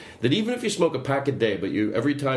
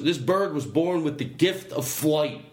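Brian Regan bit; 2 semitones higher, slower than usual. Retold or imitated. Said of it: "like Brian Regan goes".

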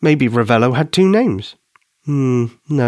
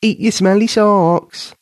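slow, drawn-out mock taunt, higher; slow teasing singsong; 9 semitones higher, slower than usual. A narrator's reading. Katie repeating her taunt slowly, laughing at Ben. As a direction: stretch it out to tease him. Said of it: "still laughing".

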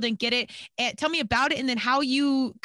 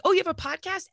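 mock surprise; 8 semitones higher than usual. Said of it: "I always laugh when people are like".

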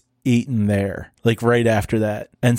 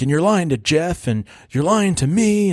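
higher, accusing retold rant; mild mock yell; 5 semitones higher than usual. Jerk guy ranting at the girl, mock angry. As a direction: pile up accusations in mock anger. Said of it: "yelling at the girl".

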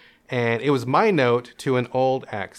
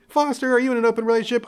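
asking parent; 10 semitones higher, faster than usual. Retold or imitated. Imagined parents asking directly.

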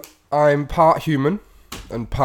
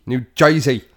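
echoed "Joisey" in New Jersey style; mock New Jersey accent; 4 dB louder than usual. Co-host echoes the host in a mock New Jersey accent.

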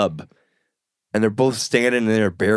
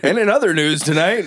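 mock news anchor; 5 semitones higher than usual. Playing anchor after the scandal.

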